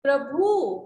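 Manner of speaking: प्रभु with the end drawn out, "pra-BHOOO"; long final oo. Shown as a demonstration. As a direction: stretch the last vowel of प्रभु, loud and falling. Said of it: "बड़ा ओ की मात्रा नहीं".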